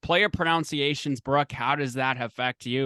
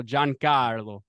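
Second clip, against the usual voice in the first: Italian accent; much slower than usual. Shown as a demonstration. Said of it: "the Italian accent".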